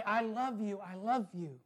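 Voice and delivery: softening over each repeat; a tender, quieting I love you. Shown as a demonstration. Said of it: "we need to sometimes come back and say".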